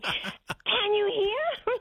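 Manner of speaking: put-on high, very slow, drawn-out child's voice; mock toddler yell. Toddler asking blind Nana if she can hear, high and drawn out. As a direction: stretch each word like a toddler shouting. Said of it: "she yelled at me".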